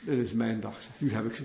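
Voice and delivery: low, soft smug gloat; gloating Sisera. Acted. Sisera gloats over trapped Israelites, low and smug. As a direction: murmur it low, savouring victory. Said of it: "zegt hij".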